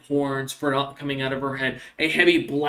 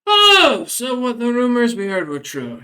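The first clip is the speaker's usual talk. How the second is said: higher, louder burst of surprise; surprised realisation; 10 semitones higher, 8 dB louder than usual. Acted. Ulysses hears the rumored death is true, surprised. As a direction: catch the news with a startled lift.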